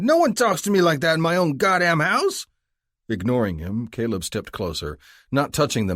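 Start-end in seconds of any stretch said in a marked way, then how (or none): 0.0-2.5 furious cry. A narrator's reading. Drunk yelling at the cop on his porch, enraged. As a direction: bellow it at the cop. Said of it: "he cried".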